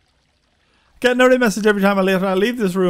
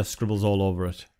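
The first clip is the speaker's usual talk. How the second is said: soft unvoiced whisper; hushed whispered aside; 11 semitones lower, 9 dB quieter than usual. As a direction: breathe it out as a secret aside. Reading item description aside.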